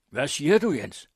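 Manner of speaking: loud, high outraged question; angry shout. A narrator's reading. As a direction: shout at him in angry disbelief. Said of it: "råbte præsten vred".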